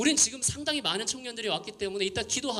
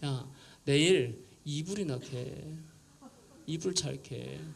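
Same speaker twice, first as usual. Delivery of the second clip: dry advice; 4 semitones lower, slower than usual. Retold or imitated. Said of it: "이렇게 말해요".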